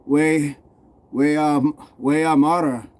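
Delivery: attempted Newcastle dialect phrase; Newcastle accent. Shown as a demonstration. Showing viewers how Newcastle says it, tentative Geordie accent. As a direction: try out a Geordie saying, haltingly. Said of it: "In Newcastle, we say".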